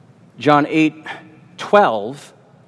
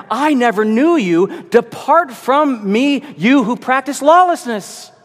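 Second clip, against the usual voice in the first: solemn slow judgment; 6 semitones higher than usual. Acted. Quoting Jesus's judgment.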